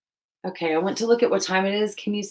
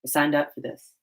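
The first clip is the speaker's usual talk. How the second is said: deadpan resignation. Retold or imitated. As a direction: mutter it, accepting your fate. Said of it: "These are times where I'm like".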